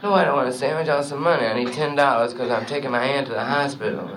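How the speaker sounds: low, soft jive-talking cat; hipster jazz trumpeter. Acted. Hip trumpeter answers the bandleader, low and laid-back. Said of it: "the new trumpet player".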